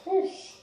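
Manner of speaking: quick puff of effort; short whoosh of released breath; sharp exhale. Real, not acted. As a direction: blow out breath from the exertion. Blowing out effort during workout.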